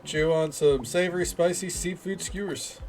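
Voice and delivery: put-on cheesy, clumsy French accent for a festival host; attempted French accent, brightly announcing; bad French accent. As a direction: read it as a welcome in a poor French accent. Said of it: "That is the worst French accent".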